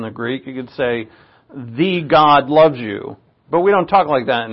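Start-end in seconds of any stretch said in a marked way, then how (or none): 1.5-3.2 "The" drawn out as "thee", slowly; slow, deliberate weight on "The"; stress on "The". Shown as a demonstration. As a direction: set "The" apart as a long "thee". Shows the Greek article in English.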